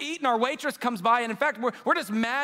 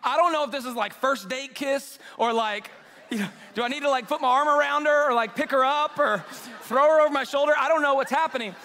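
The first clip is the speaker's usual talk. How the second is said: raised, louder voice of comic panic; mock-flustered, pitched up; awkward fretting; 4 semitones higher, 4 dB louder than usual. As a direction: act out flustered inner questions, getting louder. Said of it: "this is where it gets awkward".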